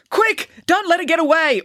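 loud, high-pitched command; urgent order. A narrator's reading. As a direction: shout the order in alarm. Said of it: "ordered the investigator".

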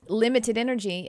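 Texas accent slipping out on "energy"; Texas-accented "energy", unforced. Real, not acted. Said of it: "That's my Texas accent".

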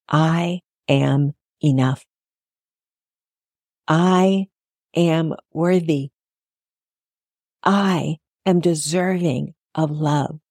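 slow, calm affirmations. Shown as a demonstration. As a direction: speak each line slowly and sincerely. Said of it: "Repeat after me".

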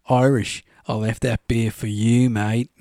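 a hint of a friendly Aussie bloke offering a beer; friendly Aussie bus driver, lightly voiced; Aussie mate. Mate quoted at the bar.

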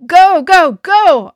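loud, high excited cheer; whooping. A narrator's reading. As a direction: whoop it like a race chant. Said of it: "I whooped".

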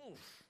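small, soft oof of dismay; muted grunt of distaste; pained oof. Acted. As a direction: wince quietly at an awful sound. Recoils from own singing voice.

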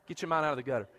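fast laughing scold to the crowd; laughing tease. Real, not acted. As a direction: tease them while laughing.

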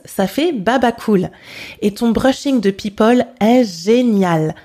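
strong French accent on Franglish words; lively French accent on "relooking" and "shooting"; harsh French accent. Shown as a demonstration. Teacher reads the Franglish dialogue in a French accent. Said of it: "with a very harsh French accent".

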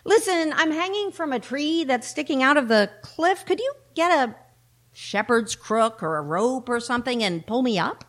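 lightly voiced, high-pitched sheep; sheep asking for help. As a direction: plead up the cliff in a slightly high voice. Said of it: "said the sheep".

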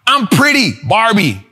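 loud line, dropped tag word; mock Barbie punchline; teasing impression of a rapper; old rap bars. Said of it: "when she used to talk like that".

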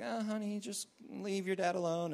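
softly voiced, gentle mother; soft parental hushing; soothing mom. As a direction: quietly shush the kid away.

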